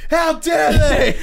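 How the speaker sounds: high, loud, drawn-out mock Scottish outrage; hammed-up Scottish indignation; bad Scottish accent. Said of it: "I can't do a Scottish accent".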